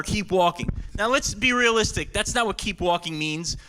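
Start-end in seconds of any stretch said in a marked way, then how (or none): 0.0-0.7 measured slogan read, falling at the end; understated advert tagline. Acted. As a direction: say it as a commercial's sign-off. Voicing the ad's slogan.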